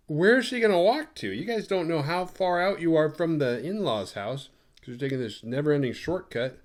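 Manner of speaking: high, disbelieving retold objection; incredulous protest. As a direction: act out baffled objection, leaning on the first words.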